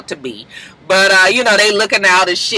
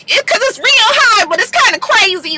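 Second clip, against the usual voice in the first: high crazy Pooh voice; 12 semitones higher than usual. Shown as a demonstration. Showing how high Pooh's voice goes, high and crazy. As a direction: pitch well up, wild. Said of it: "my Pooh voice".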